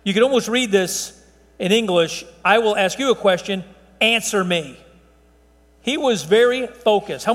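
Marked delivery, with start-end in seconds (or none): 2.4-4.8 firm stress landing on "answer me"; "answer me" set apart as an emphatic command. Retold or imitated. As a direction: say "answer me" as a pointed demand. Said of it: "it's emphatic".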